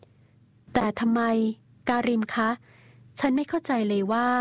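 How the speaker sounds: put-on young woman's voice, lifted and slow; Danielle pleading. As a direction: ask him, bewildered and hurt.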